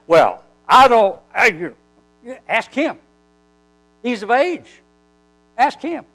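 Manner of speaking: stammer, then pass the question off in short bursts; evasive parents. Retold or imitated. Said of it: "the reason they answered like this".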